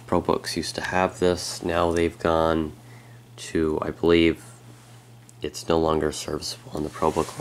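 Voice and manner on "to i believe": voice crack. Real, not acted. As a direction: voice cracking on a word. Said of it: "Sorry about a voice crack there".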